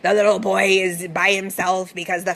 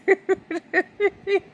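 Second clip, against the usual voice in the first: laugh; 11 semitones higher than usual. Real, not acted. Amused by the movie's dialogue.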